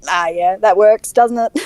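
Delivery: easy Australian approval; relaxed Australian. Retold or imitated. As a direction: let the Australian slip out. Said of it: "my Australian accent comes out way more".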